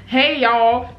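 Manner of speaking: light mock-Southern greeting, slightly high; Southern accent. Shown as a demonstration. Announcing an accent attempt to a friend, Southern. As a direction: try an easy put-on Southern twang. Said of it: "I'm gonna do a Southern accent".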